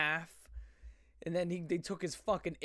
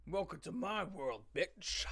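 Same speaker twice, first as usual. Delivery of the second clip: quiet Freddy Krueger quote; 4 dB quieter, slower than usual. Retold or imitated. Quoting the lyric, a hint of Freddy Krueger. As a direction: murmur it like a horror villain. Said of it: "That reminded me of Freddy Krueger".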